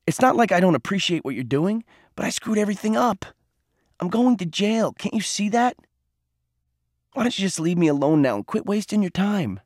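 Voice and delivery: despairing outburst. Acted. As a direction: hold back tears while begging them to leave. Boy fighting back tears, despairing.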